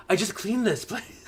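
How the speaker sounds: high, slow comic complaint; mock exasperation. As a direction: whine in protest at the mess. Paige complaining as battle moves in.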